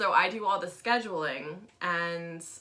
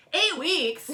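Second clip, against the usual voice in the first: high indignant disbelief, louder; mock outrage; 9 semitones higher, 6 dB louder than usual. Client at the front desk, loudly indignant disbelief. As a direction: echo the number back in shock. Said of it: "she looks at me and she's like".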